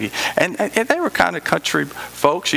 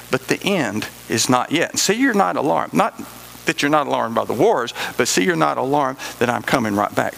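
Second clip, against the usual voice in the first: scripture reading. Acted. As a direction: read it out as sacred text. Reads Matthew 24 aloud.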